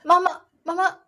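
put-on high, loud little-kid plea; a toddler rushing to reassure mom; mock-panicked child voice. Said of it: "他说".

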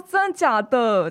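slow, drawn-out Taiwan Mandarin question; imitated Taiwanese accent. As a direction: copy how Shanghai friends mock Taiwan speech. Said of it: "啊，他会说".

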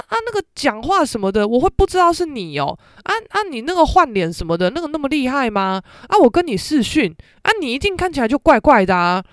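a mild take on mom waving the worry away; mom brushing it off. Retold or imitated. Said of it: "她居然说".

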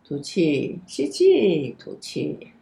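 guided breathing. Shown as a demonstration. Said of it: "我就引导他呼吸".

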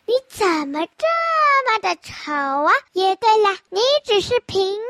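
lightly voiced snooty poodle, looking down on the other dog; haughty. Poodle sneering at the plain Pomeranian, mildly haughty. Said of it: "高傲地说".

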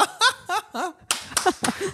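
high embarrassed giggle; nervous laugh. Real, not acted. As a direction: laugh off the awkward moment. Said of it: "哇，这集好难录。". (尴尬地大笑)

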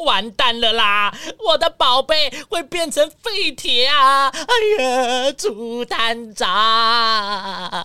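mock despair, stretching the final name out very slowly; hammed-up lament. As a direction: wail theatrically about the lost treasure. Car owner wails over his stolen car.

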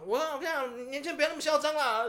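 half-acted telling-off of a cocky young man; mock scolding shout.

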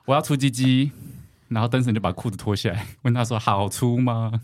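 put-on lightly Taiwanese Mandarin accent. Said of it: "但是为什么会讲台湾国语".

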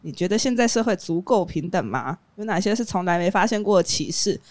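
stilted, monotone line reading; wooden reading. Shown as a demonstration. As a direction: read it woodenly like bad acting. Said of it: "我要棒读是不是".

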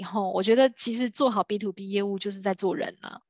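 ordinary talk, nothing marked

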